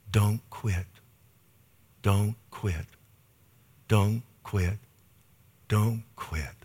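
retold solemn charge, each word set apart; solemn, deliberate repetition. Friend looks in the pastor's eyes to give a word, solemn and deliberate. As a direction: repeat it slowly with long pauses between.

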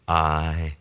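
low, slow, weighty divine declaration; majestic voice of God. Retold or imitated. Preacher voices Jesus revealing himself as God, majestic. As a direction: speak it as God, deep and unhurried. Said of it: "the majesty of the true voice of the living God".

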